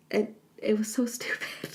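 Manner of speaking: hushed, unvoiced whisper; whispered aside. Real, not acted. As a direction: whisper it like a confession. Muttered aside about stupid script.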